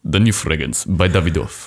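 put-on low, slow Russian-accented perfume ad; sultry perfume ad. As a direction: breathe it like a Russian perfume commercial. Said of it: "Parfumwerbungen auf Englisch ... russischen Touch".

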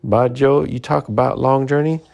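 crowing with pride at his own deed; jubilant. Acted. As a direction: ecstatic French-Canadian lumberjack. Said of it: "the lumberjack was dancing up and down".

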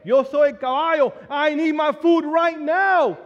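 impatient customer at the drive-thru, mock angry outburst; mock frustrated rant. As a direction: fume under your breath in Spanish, then blow up. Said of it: "and I'm Latino, so I'm like".

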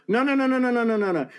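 high, insistent nun voice cutting in; mock nun scolding. Nun stopping the new carer, high and insistent. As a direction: imitate the nun stepping in, high and pushy.

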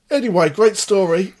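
sarcastic. Real, not acted. Mocking wrap-up after rambling.

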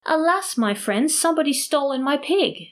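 high-pitched plaintive lament; almost in tears. A narrator's reading. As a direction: appeal to friends, close to tears. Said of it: "almost in tears".

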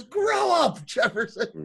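stern Stein. Retold or imitated. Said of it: "He goes".

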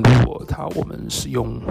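usual speaking voice

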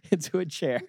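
usual speaking voice

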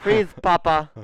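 high, loud cop yell at papa; goofy arrest yell; mock cop shout.

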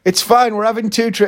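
high mock wife voice; imitating wife. Wife quoted scolding.

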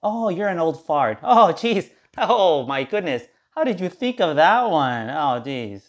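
a hint of a coworker chuckling at his own joke; imagined coworker ribbing him, lightly mocking; mock coworker teasing. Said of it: "I'm gonna get the".

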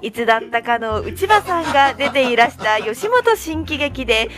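reading in a put-on Kansai lilt; badly faked Kansai intonation on a read message; attempted Kansai accent. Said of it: "関西弁っぽく。". (関西弁っぽい抑揚で読む)

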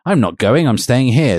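half-hearted yelled refusal; mock yell. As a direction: protest as if yelling, without much volume. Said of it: "I yelled".

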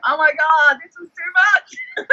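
high, slowing, half-crying mock panic; retelling the challenge panic, a hammed-up whimpering wail; mock overwhelmed wail.

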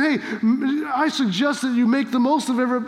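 tentative, take-it-or-leave-it suggestion; easygoing, optional-sounding advice; casual suggestion. Acted. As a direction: offer it lightly as a mere suggestion. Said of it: "Paul's not saying".

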